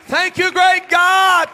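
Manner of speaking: drawn-out, shouted thanks at the peak; slow roaring praise. Acted. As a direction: stretch out "great God" at full shout. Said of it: "repeats the line twice".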